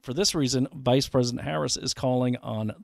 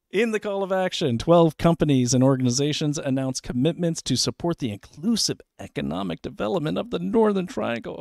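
mock gushing; 6 semitones higher, 3 dB louder than usual. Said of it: "Oh my God, I'm gonna cry".

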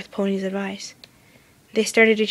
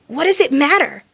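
Rainbow Dash voice; 6 semitones higher, 5 dB louder than usual. A narrator's reading. Dash, distressed, to Twilight.

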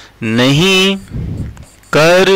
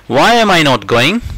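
slow model sentence; 2 semitones higher, much slower than usual. Shown as a demonstration. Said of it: "slow model sentence".

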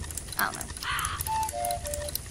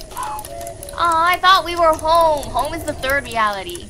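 put-on very old man; 3 dB louder, slower than usual. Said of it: "my papyrus voice and my old man voice".

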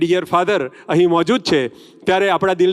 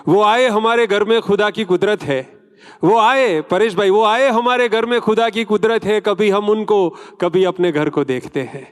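higher, declaimed couplet; shayari recital; 3 semitones higher than usual. Acted. Host welcoming a film star with a couplet, declaimed shayari. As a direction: recite it grandly to the hall, dropping at the close.

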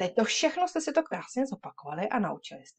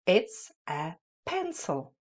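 slow, clear choral model; slower than usual. Shown as a demonstration. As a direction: lead the class slowly. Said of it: "Řekneme si to všichni?".

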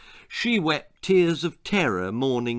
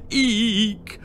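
high startled squeak; cry of alarm; 9 semitones higher than usual. Acted. Father hearing of a headache, high yelp. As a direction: yelp in sudden fright. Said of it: "cried her father".

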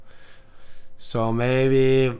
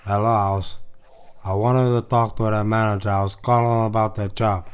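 put-on Latino accent; 4 semitones lower than usual. Prank caller in a thick put-on accent. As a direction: play a heavy-accented caller asking for work. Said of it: "that's too popular of a fucking accent".

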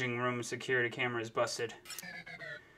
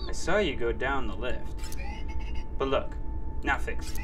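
loud, defensive robot ranting; angry robot voice; 5 dB louder than usual. Acted. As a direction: bluster loudly like a guilty robot.

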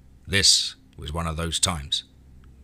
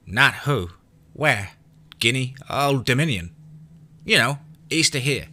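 put-on a boy amazed at grown-up ignorance; high child's voice, disbelieving; disbelieving kid; 6 semitones higher than usual. A narrator's reading. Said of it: "a disbelieving look".

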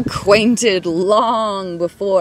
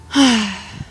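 audible sigh; 3 semitones higher than usual. Acted. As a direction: let out a sigh between verses. Sigh between poem passages. (sighing exhale)

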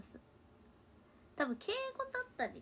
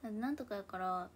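Kansai yakara. Shown as a demonstration. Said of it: "めっちゃ言っちゃうし".

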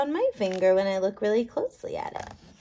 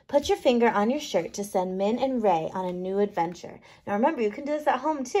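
ordinary delivery, nothing marked

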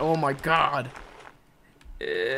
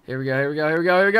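building hype; 4 semitones lower, much faster than usual. Real, not acted. Building hype before a jump.

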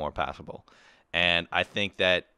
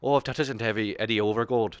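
Irish accent; 2 semitones higher than usual. Shown as a demonstration. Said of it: "Irish is like this".

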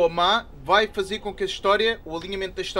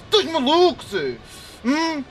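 mocking taunt; 5 semitones higher, slower than usual. Gamer mocking rival Zé, high teasing taunt. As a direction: poke fun at him.

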